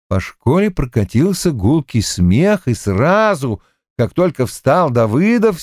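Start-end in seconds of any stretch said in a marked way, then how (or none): none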